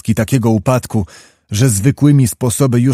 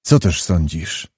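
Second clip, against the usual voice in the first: low, soft, confiding question; familiar good nature; 7 semitones lower, 4 dB quieter than usual. A narrator's reading. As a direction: draw him in gently, like an old friend. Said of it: "z pewną poufałą dobrodusznością".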